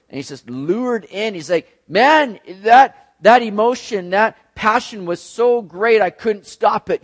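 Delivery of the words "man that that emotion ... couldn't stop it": put-on excited young man. Young man voiced, lured by passion.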